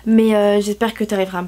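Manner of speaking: sick, stuffy nose voice; blocked nose from a cold. Real, not acted. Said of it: "je suis malade, du coup j'ai un peu une voix nulle".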